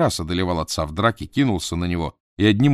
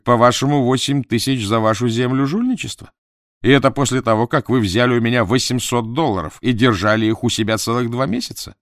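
raised, pressing businessman voice; indignant buyer; 4 semitones higher, 5 dB louder than usual. Acted. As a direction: challenge them with indignation. Crawford confronts family.

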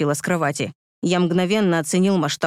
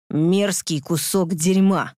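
angry growl; slower than usual. Acted. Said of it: "зло прорычал я".

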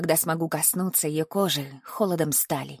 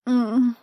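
exhausted moan; 5 semitones higher than usual. A narrator's reading. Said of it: "обессиленно промычала она".

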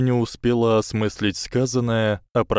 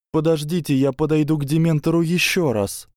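higher, urgent plea; 8 semitones higher, faster than usual. A narrator's reading. Hermione tells teachers she will approach Dementor, urgent. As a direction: press on, rushed and determined.

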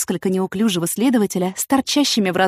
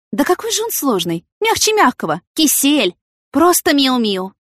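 high, lively woman musing with indignation; self-justifying heroine; 6 semitones higher, 4 dB louder than usual. A narrator's reading. Yana grumbling to herself on the platform, indignant. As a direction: argue her own case, pitched up and animated. Narrator voices Yana's thoughts.

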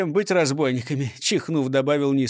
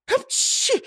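much higher, sharp sneeze. A narrator's reading. The prisoner sneezes in his cell. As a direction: let out a squeaky full sneeze.

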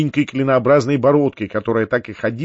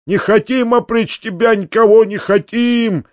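high, drawn-out pleading cry; wailing peasant chorus; 8 semitones higher than usual. A narrator's reading. Peasants beg their master not to leave them, wailing. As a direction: wail it out slowly like a crowd begging. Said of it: "завопили вдруг мужики целым хором".

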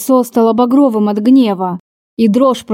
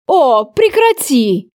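slow, drawn-out disgust; 3 semitones higher, slower than usual. Acted. Lover recoiling from her tears in disgust, slow and scornful. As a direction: wince and push the words away. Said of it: "с отвращением поморщился".

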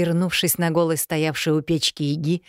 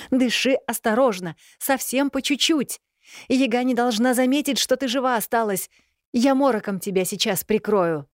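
higher, insistent female voice; urgent helper woman; 7 semitones higher than usual. A narrator's reading. A stranger instructs the dying Elena, higher and insistent. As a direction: instruct her quickly and firmly.

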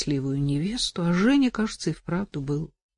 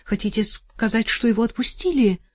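trembling voice; 4 semitones higher than usual. Acted. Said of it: "Дрожащим голосом спросила она".

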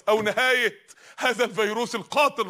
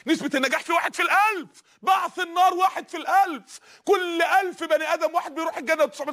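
preaching shout; 5 semitones higher than usual. Real, not acted. Preacher warns of hellfire odds.

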